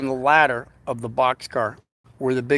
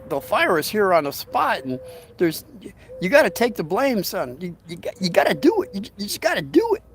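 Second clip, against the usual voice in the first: put-on higher, pleading old railroad man; pleading coworker; 4 semitones higher than usual. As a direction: beg him to take the blame.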